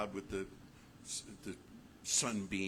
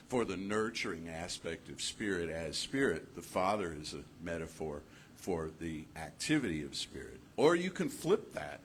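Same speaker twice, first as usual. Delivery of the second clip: ordinary talk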